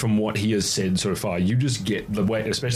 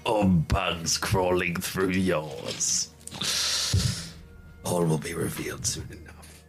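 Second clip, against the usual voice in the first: dark whisper behind you; slower than usual. Acted. GM voices hidden daemon.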